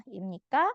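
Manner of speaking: imnika with the pitch going up at the end; rising question tune. Shown as a demonstration. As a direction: lift the end of imnika upward. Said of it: "nadanya harus naik ya".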